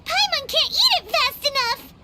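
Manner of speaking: excited delight. Acted. Tasting delicious tachin.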